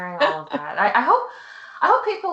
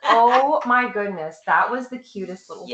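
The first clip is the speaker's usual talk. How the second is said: gushing; 3 semitones higher, 7 dB louder than usual. Real, not acted. Gushing over cute stream.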